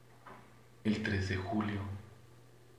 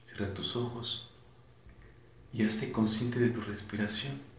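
calm breathing guide with long pauses; measured relaxation instructions, unhurried; guided meditation; 5 dB quieter than usual. Acted. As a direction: lead them through each breath, leaving space between phrases.

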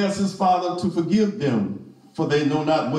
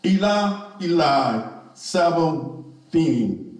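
cried out. Acted. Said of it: "Jesus cried out".

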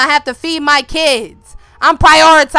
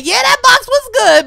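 high voiced Jeffrey; 11 semitones higher, 5 dB louder than usual. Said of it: "He said".

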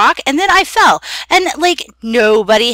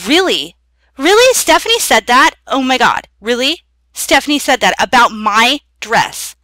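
catty; 2 semitones higher than usual. Acted. Catty gossip about Stephanie's dress.

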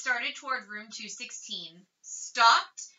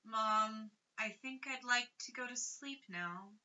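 softer, sleepy sick mumble; thick mutter; 11 dB quieter than usual. Acted. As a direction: let the words slur as he drifts off. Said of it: "he muttered thickly".

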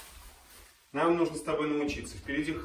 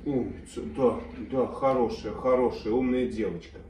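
talking to a dog; 3 semitones lower than usual. Real, not acted. Praising the dog.

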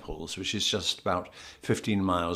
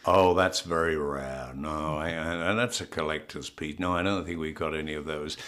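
American shop assistant; 6 semitones lower, 4 dB quieter than usual. Retold or imitated. New York toy shop woman answers a customer, in an American accent. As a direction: imitate an American saleswoman, pitched low. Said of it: "the woman said".

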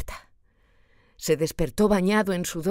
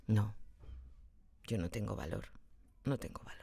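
despairing murmur; 8 semitones lower, 14 dB quieter than usual. A narrator's reading. Despairing self-talk.

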